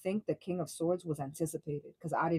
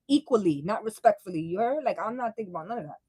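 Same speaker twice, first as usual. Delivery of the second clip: louder, higher, laughing and fast; hyped laughing emphasis; 4 semitones higher, 7 dB louder than usual. Real, not acted. Talking to viewers, loud laughing hype. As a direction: hype it up like you're cackling at your own line. Excited emphatic aside after quote.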